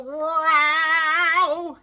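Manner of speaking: slow, loud, sung-out meow; drawn-out loud singing meow; big meow. A narrator's reading. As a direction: belt it like the cat's biggest meow. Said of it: "her biggest meow".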